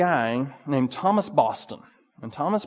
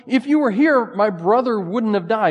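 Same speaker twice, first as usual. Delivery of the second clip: raised, pleading cry of the grieving sisters; higher and louder, pleading with Jesus; grieving sister's cry; 8 semitones higher, 7 dB louder than usual. Acted. Grieving sister asks Jesus why he was absent, pleading and louder.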